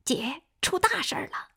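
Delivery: high, tearful call for help; crying on the phone. A narrator's reading. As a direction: sob out the bad news. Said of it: "夏季哭着给夏红打电话".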